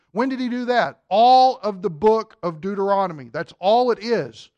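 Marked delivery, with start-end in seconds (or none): none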